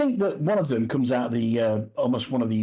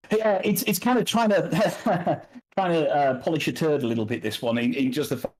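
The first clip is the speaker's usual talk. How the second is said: breaking up audio. Real, not acted. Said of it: "your audio is breaking up quite a bit".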